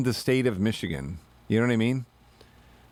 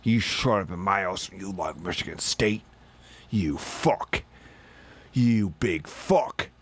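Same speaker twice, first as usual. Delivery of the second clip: mock host; 4 semitones lower than usual. Host voiced insulting fan.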